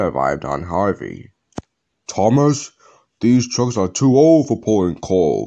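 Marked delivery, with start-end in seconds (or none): 2.1-5.5 firm, stern, reproving tone with a raised voice. Sir Tom speaks to Thomas after the coal spills, stern. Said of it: "Sir Tom had said sternly".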